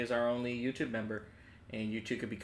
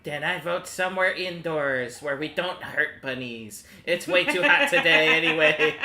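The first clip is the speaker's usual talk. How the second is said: laughing; 4 semitones higher, 8 dB louder than usual. Real, not acted. Laughing through in-character line.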